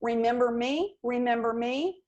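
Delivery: "Remember me? Remember me?" rising at each end; question-mark tone. Shown as a demonstration. Sales coach repeating the rising tone for a cold call. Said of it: "a question mark".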